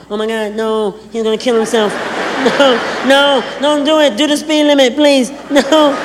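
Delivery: a hint of a frantic girlfriend begging; impression of women. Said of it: "That's my impression of women".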